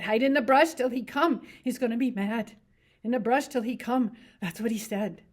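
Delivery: Lenny. Acted. To Curly's wife about rabbits, eager simple voice.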